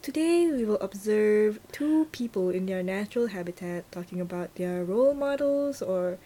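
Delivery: observe them like a wildlife narrator; nature documentary. Pretend. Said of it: "you sound like a documentary person".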